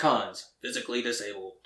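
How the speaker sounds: flat robotic readout again; deadpan machine voice. Retold or imitated. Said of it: "and says it like that".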